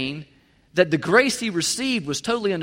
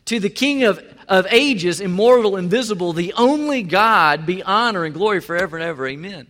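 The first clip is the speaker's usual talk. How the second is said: louder, lifted doxology; burst of praise; 4 dB louder than usual. Retold or imitated. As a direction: let the praise break out. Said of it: "breaks out in this moment of praise".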